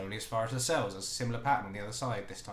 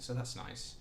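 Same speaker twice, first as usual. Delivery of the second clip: ordinary delivery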